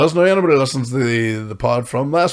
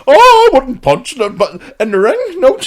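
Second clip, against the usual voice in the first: mocking whiny backpedal; 12 semitones higher, 9 dB louder than usual. Mocking his friend's backpedalling on the podcast, high and whiny. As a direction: send him up as a coward backing out. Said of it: "And you started going".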